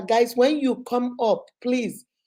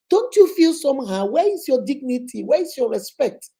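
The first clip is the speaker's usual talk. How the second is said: higher-pitched indignant questions; indignant scolding; 3 semitones higher than usual. Acted. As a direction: challenge them with mild outrage. Scolds the woman in the story.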